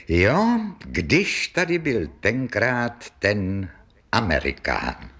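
slow, lightly voiced old witness recalling; a hint of villagers looking back, drawn out; reminiscing villagers. Villagers retelling the visit for years to come, lightly voiced reminiscing. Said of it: "pamětníci tohoto setkání ještě dlouhá léta budou říkat".

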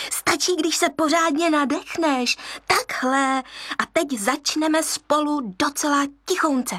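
a playful hyena voice, encouraging; hyena teacher. Acted. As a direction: coax him into laughing with you.

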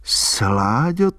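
high, tender reproach; fond chiding. A narrator's reading. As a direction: tease the silly boy lovingly. Albína scolding fondly, rising.

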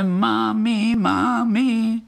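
high little "Mami, mami"; lightly imitated tiny cry. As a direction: echo the crickets' call. Crickets' cry quoted. (cvrčci volají mámu)

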